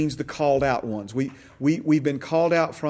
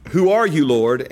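urgent; 6 dB louder than usual. Shown as a demonstration. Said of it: "that's not how he said it".

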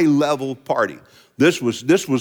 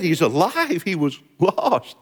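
ordinary talk, nothing marked

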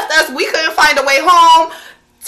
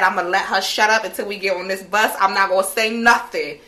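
muttered to self; 7 semitones lower, 6 dB quieter than usual. Retold or imitated. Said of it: "I said".

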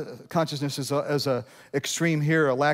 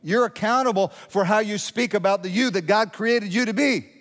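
higher, driving preacher's delivery; raised-pitch pulpit charge; emphatic preaching; 6 semitones higher, 3 dB louder than usual. Real, not acted. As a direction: preach it out with conviction. Preaches at full force.

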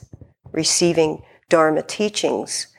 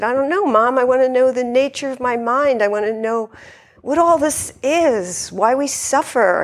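much higher, earnest flustered plea; flustered stammer; 8 semitones higher than usual. Retold or imitated. Daughter anxiously explaining herself to her mom, higher pitched. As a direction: plead high and earnest. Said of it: "I remember kind of stammering to her".

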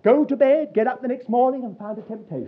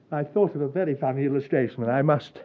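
suppressing laughter; 9 semitones lower, 5 dB quieter, faster than usual. Real, not acted.

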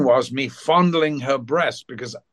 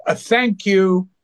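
higher, drawn-out imitated thanks; retold grateful thanks; 6 semitones higher, 4 dB louder, slower than usual. Actress thanks Malcolm for warning her off, imitated gratitude. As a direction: imitate a grateful friend, slow and lifted.

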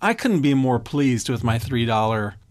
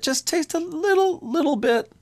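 tempting whisper voice. Pretend. Tempting voice, higher.

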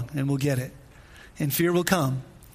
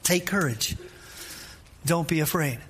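calm reassurance; 4 dB quieter than usual. Acted. Repeats Jesus's reassurance.

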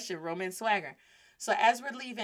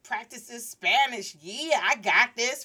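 louder, swaggering self-assurance, stretched out; cocky confidence; 2 semitones higher, 4 dB louder than usual. Retold or imitated. Student hyping herself up to speak Spanish, confident. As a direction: act all sure of yourself. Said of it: "feeling all confident".

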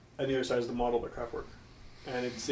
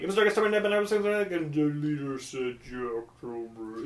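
computer voice. Retold or imitated. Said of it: "you make it go super fast".

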